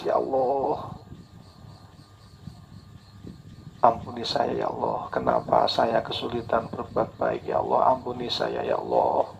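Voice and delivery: soft pleading prayer with a hint of tears; tearful prayer. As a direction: plead quietly to God, lightly tearful.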